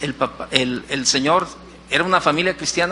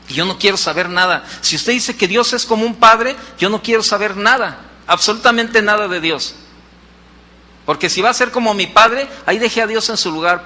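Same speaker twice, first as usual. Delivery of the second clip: acted defiance, raised and higher; vehement refusal; 3 semitones higher, 4 dB louder than usual. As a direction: refuse firmly, building in force as the boy. Retold child angrily rejects God. (rechazo vehemente, imitando al niño)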